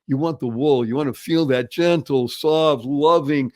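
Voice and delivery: ordinary delivery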